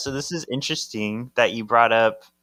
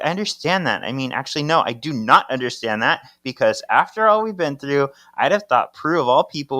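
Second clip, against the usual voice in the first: raised, louder mock scolding; retold angry rant; 4 semitones higher, 4 dB louder, faster than usual. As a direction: play the furious wife, half in jest. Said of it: "Paige is yelling at Henry".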